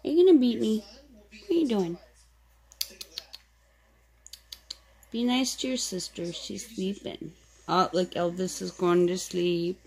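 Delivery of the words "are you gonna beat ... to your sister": playful scolding. Real, not acted.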